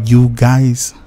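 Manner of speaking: slow, stretched-out goodbye; drawn-out sign-off. Real, not acted. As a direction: draw the last words right out. Drawn-out catchphrase sign-off to viewers.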